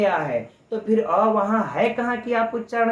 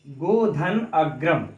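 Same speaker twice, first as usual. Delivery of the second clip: गोधन अग्रम drawn out very slowly, each word spaced; slow dictation; 3 semitones lower, much slower than usual. Shown as a demonstration. Teacher reading the example slowly so students can write it. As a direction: spell out गोधन अग्रम slowly for note-taking. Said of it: "तो हम लोग देख लेते हैं".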